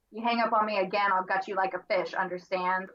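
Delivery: low, brisk menace, lightly imitated; retold horror-villain phone threat; creepy Ghostface threat. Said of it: "he says some pretty creepy things".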